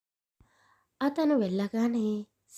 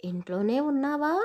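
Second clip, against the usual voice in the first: grandmother calling out; 2 semitones higher than usual. Acted. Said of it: "అతన్ని పిలుచుకుంటూనే".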